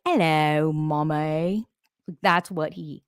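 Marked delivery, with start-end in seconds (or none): 0.1-1.7 drawn-out meow sliding up at the end; talking-cat meow. Retold or imitated. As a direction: meow like a cat calling its owner. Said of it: "that's his meow".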